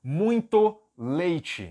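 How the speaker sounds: "muito leite" drawn out very slowly; slow Portuguese. Shown as a demonstration. Teacher slowly setting the Portuguese example. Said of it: "meu primeiro exemplo é".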